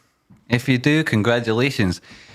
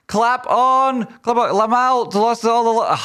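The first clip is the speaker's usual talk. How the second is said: excited cheer; 10 semitones higher, slower than usual. Real, not acted. Cheering chat on.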